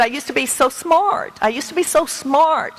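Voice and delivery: put-on retelling a little boy's despair, mild; a hint of a hurt nine-year-old; quoting a crying child. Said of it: "he said".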